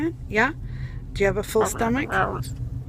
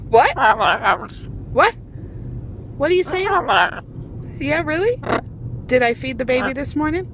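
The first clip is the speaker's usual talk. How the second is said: surprised; 5 semitones higher, 4 dB louder than usual. Real, not acted. Amazed at the parrot's words.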